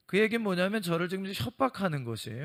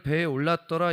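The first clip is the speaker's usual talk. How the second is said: scripture quote; 5 dB louder than usual. Acted.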